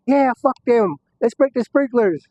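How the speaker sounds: high, slow, rallying call; rowdy hype. Retold or imitated. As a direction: whip up the crowd. Inmates hyping each other up.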